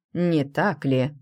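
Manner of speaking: very slow, sly taunting question. A narrator's reading. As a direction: drag it out knowingly. Rick taunts her.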